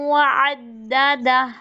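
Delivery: व अद्ददा with the doubled द merged firmly; idgham. Shown as a demonstration. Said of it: "इदगाम का proper कायदा". (अद्ददा में इदग़ाम)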